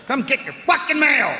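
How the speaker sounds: a postman at the end of his rope; mock mailman yell. Stressed mailman yells at the street, mock angry.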